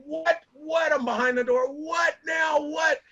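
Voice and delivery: put-on a tired dad barking at kids at the door; grumpy dad behind door. Dad woken on a holiday, calling out annoyed through the door. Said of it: "and I'm like".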